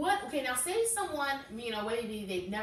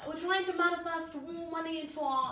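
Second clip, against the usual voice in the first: mock British accent; 6 semitones higher than usual. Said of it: "I hate a British accent".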